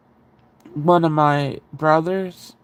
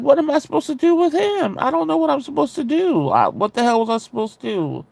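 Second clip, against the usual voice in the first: high, flustered protest easing at the end; retold helpless panic; 9 semitones higher, faster than usual. Teller left alone with possessed brother, flustered helplessness. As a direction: act out being at a total loss.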